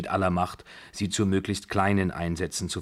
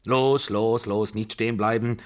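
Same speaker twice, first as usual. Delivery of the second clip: loud, higher urgent command; impatient matriarch's shout; 4 semitones higher, 5 dB louder than usual. A narrator's reading. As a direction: yell at them to keep moving. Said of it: "schrie die Babuschka".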